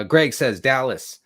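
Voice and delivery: ordinary talk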